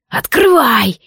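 a sharp, impatient roar of a command; barked order. Acted. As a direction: bark it, unable to hold back. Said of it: "рявкнуло существо".

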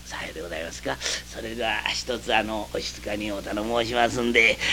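soft, low and deferential; bow and thank them quietly; innkeeper's clerk thanking the guests softly; humble clerk. Acted.

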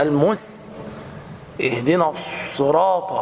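المس with an exaggerated hissing sin, then a heavy slow اهدنا الصراط; mock the overblown letters; overdone sin. Shown as a demonstration. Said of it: "بعضهم يقرأ مثلًا".

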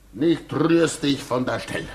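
mocking, laughing threat; laughing command. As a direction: order him to stay through a laugh. Orders him with mocking laugh.

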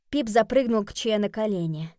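usual speaking voice

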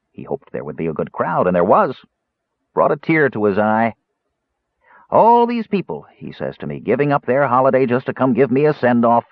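lightly voiced old hangman, fondly reminiscing; sentimental old jailer. Jailer remembering a condemned man's send-off, wistful. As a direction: reminisce fondly about hangings.

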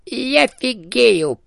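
a tiny ghost gasping in disbelief; squeaky hamster ghost. A narrator's reading. Dead hamster amazed that someone sees him. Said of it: "произнёс голос с верхней полки".

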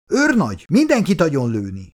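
high, commanding call; shouted order. A narrator's reading. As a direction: fire off a battlefield command, pitched high. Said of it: "Közben Vereckei parancsokat kiabált".

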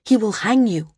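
grave, emphatic warning; a firm word of caution. A narrator's reading. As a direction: warn them of the danger. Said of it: "warned Evan".

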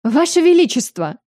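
high, loud demanding appeal; outraged appeal. A narrator's reading. The furious mother appeals to the king, loud. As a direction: call on the king in indignation. Lady Mansera turns sharply to king.

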